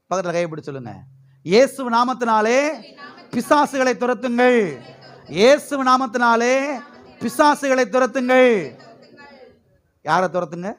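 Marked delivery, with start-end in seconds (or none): 1.4-8.5 drawn-out, ringing call to repeat; preacher's rallying declaration. Real, not acted. Preacher has church say drive out demons, slow ringing declaration. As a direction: lead the crowd phrase by phrase, slowly.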